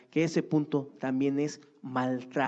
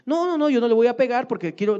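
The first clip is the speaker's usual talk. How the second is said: mock indignant parent; 8 semitones higher, 9 dB louder, faster than usual. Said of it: "doting parent protesting".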